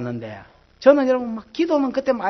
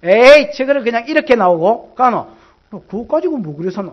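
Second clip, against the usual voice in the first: hot temper; 6 dB louder than usual. Retold or imitated. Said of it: "기질이 팍 나와보는 거야".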